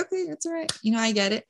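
gentle reassuring husband, light and quiet; husband comforts his tearful wife, hushed and reassuring; soft reassurance. Retold or imitated. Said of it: "he's like".

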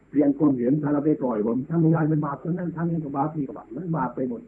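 mock anxious follower. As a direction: ham up the worrier who fears all is sin. Mimics scrupulous worried followers.

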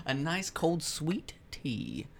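laughing country drawl, slow; country accent. Acted. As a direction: drawl it while cracking up. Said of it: "really fucking country".

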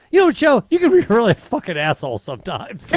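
high, loud outburst that settles fast; retold angry escalation. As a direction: imitate someone suddenly dialing up to an insult. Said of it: "went from a one to a ten".

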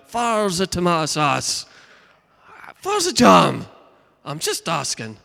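a mildly mock put-upon husband, pitch jumping about; hammed-up innocent husband hunting the kitchen; husband to wife. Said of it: "Or a husband to a wife".

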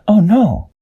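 high, worried character voice; Peso's voice. A narrator's reading. Peso hearing Dashi is hurt, high worried voice. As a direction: gasp it high in dismay. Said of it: "Peso said".

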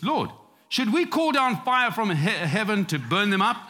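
high-pitched plea breaking into amusement; mock eager disciples. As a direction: lightly act out zealous disciples, chuckling.

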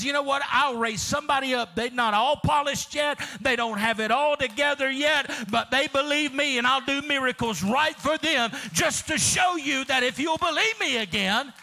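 God's voice. Acted. Preacher voicing God's reply.

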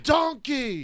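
high-pitched mock-furious insult; play-acted outburst, pitch leaping up; Gordon Ramsay screaming. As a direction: hurl it like an enraged TV chef, hammed-up. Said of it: "scream at him".

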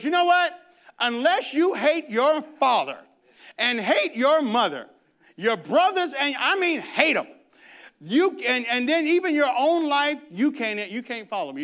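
high, loud, fiery challenge; a preacher voicing Jesus at full force; Jesus voiced. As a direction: throw it at the crowd like a dare. Jesus voiced turning on crowds.

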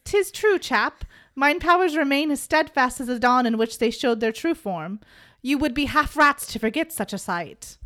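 lightly hammed-up archaic speech; old dude voice. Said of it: "we're gonna do this in old dude".

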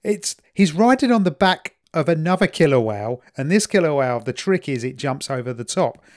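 trying to tell it without laughing; holding back laughter. Real, not acted. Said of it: "trying to say this without laughing".

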